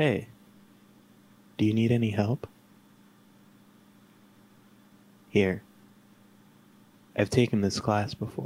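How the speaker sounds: calm, soothing, gentle voice. Describing an imagined scene, voicing the voice heard in your ear: soothing voice. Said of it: "you hear a soothing voice say".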